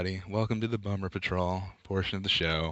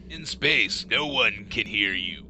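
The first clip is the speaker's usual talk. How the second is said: horror trailer voice; slower than usual. Acted. Alien tagline parody.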